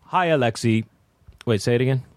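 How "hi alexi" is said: lightly put-on, deliberate greeting; measured mock hello; girlfriend impersonation. Guest demonstrating his girlfriend's voice, lightly impersonated greeting. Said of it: "It's like this".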